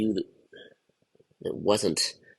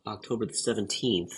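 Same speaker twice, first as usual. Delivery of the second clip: a bit hoarse from a cold; sick voice; 3 dB quieter than usual. Real, not acted. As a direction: talk through being under the weather. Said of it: "I'm still under the weather".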